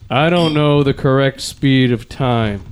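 tipsy, ponderous impression; Drunk C. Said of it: "my buddy Drunk C would say".

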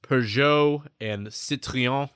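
slow, deliberate French accent on Peugeot and Citroën; host trying his best French accent on car brand names. Shown as a demonstration. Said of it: "that's my best French accent for you".

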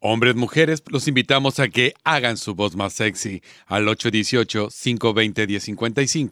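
sexy voice. Shown as a demonstration. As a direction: draw it out low and slow like a late-night DJ. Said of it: "invita a la gente con tu voz sexy".

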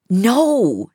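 loud, forceful no; forcefully. A narrator's reading. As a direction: cut him off hard. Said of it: "she said more forcefully".

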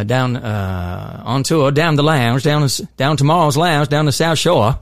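light Nova Scotia South Shore drawl; a hint of a Nova Scotia drawl; South Shore Nova Scotia accent. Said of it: "my Nova Scotia's".

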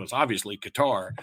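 Qatar stressed on the last syllable; Qatar as kuh-TAR. Retold or imitated. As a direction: say Qatar like guitar with a K. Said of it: "It's not guitar like a guitar".

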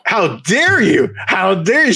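hammed-up fake indignation; mock outrage. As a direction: pretend scandalized at a friend's pick. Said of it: "And I've said, "I dare you," like, three times".

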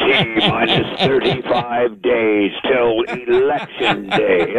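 slow laughing countdown read; hammed-up announcer countdown. Shown as a demonstration. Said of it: "the countdown all the time".

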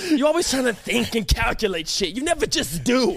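high-pitched mock lecture; lecturing coach. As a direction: scold like a preachy coach.

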